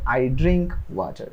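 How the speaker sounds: each word slow and separate; slow model sentence. Shown as a demonstration. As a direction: spell it out slowly for learners. Teacher models answer.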